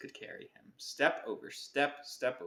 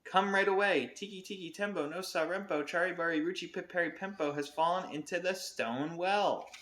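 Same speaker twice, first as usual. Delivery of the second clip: shouting; 5 semitones higher than usual. Acted. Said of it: "shouted Chang".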